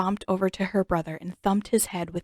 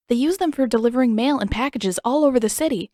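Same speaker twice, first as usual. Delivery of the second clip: eager rush; 5 semitones higher, 7 dB louder, faster than usual. Acted. Aang eagerly explaining.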